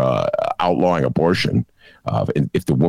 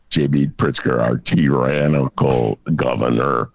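lower, slow, deadpan echo of "our tyrannical governor"; mock solemn repeat; 5 semitones lower, slower than usual. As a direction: repeat the ad line dryly and slowly. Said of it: "echoing the ad".

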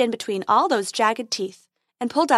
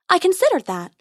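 fairy voice; 8 semitones higher, 6 dB louder than usual. Acted.

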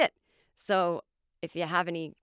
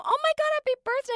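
much higher, fast, squealy congratulations; gushing excitement; 4 dB louder, faster than usual. Retold or imitated. To the lady at the airport, fast high gushing congratulations. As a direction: overdo the birthday delight. Gushing birthday wishes to stranger.

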